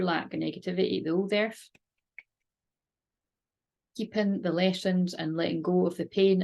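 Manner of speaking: calm, steady meditation voice; guided meditation. Acted. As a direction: lead a gentle visualisation. Guided visualisation and prayer.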